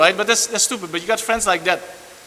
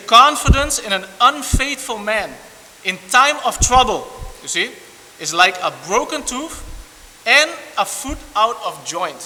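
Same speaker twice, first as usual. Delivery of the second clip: scripture reading; 3 semitones higher than usual. Acted. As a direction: read the verse out with weight. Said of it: "It says here".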